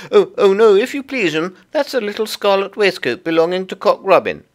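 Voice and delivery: high, loud little creature voice, stammering politely; flustered Tiggywinkle. Acted. Tiggywinkle introduces herself to Lucy, high and fluttery. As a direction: pipe up eagerly as a small humble laundress.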